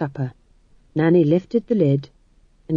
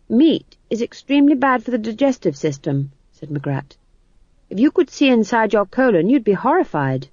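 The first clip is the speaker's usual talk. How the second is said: earnest nutrition lecture, slightly heightened; lightly played higher-pitched scold; lightly voiced lecturing McGrath; 5 semitones higher than usual. Lecturing character in story.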